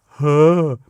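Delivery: dopey, stunned exhale; dumbstruck huh. Retold or imitated. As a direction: imitate a slack-jawed "huh". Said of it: "had this stupid look on my face".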